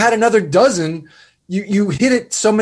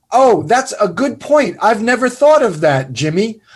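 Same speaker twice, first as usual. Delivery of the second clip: mock affected praise; 4 semitones higher than usual. Mocking the fake webinar host's line to Jimmy, affected and gushing. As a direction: parody a phony webinar host flattering his co-host. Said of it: "So affected".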